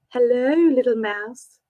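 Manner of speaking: slow, lilting seductive tease; lightly sultry unseen monster. Acted. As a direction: draw the words out like a purring predator. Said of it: "lilting and musical, seductive and sultry".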